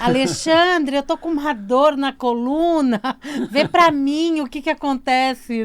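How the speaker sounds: mock client. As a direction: play a client asking the tarot reader for a diagnosis. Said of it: "É assim".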